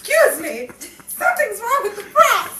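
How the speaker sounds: loud high call for attention; shouting. Acted. Actor calling out on set about the props, loud shout. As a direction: yell it across the set. Acting a film scene, shouting.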